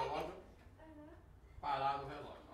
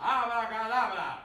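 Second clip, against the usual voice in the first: magic incantation; 5 dB louder than usual. Acted. Magician casting spell for child.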